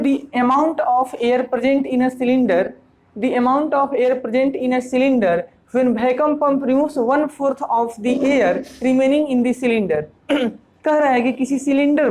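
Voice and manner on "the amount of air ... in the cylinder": slow, careful read-out; reading the question aloud. Shown as a demonstration. Teacher reads the cylinder question to students, slowly. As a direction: read every word slowly for the class.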